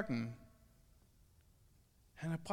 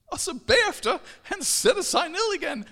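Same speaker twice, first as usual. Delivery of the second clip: higher, louder, through a laugh; laughing restart; 9 semitones higher, 9 dB louder than usual. Real, not acted.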